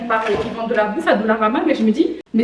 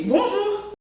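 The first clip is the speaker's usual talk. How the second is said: slow, high, stretched bonjour; repeated greeting; 9 semitones higher, 6 dB quieter than usual. Retold or imitated. Greeting the silent cashier once more, drawn-out hello. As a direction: sing out a pointed hello. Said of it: "je redis bonjour".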